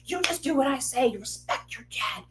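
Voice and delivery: put-on stern father voice; old-school dad. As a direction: imitate a dad laying down the law. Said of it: "My husband is very old school".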